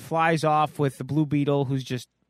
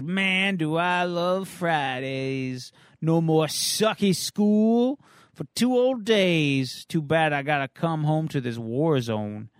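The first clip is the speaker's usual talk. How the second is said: put-on slacker teen skater; slower than usual. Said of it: "And he says".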